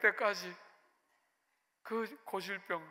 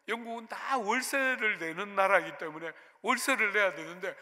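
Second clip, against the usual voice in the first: ordinary delivery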